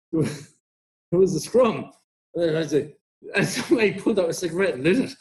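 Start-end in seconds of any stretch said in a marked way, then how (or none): 0.1-1.9 slow, drawn-out "It was a scrum" with "scrum" falling; slow quote. Retold or imitated. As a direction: stretch "It was a scrum" out slowly, landing on "scrum". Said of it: "someone's like".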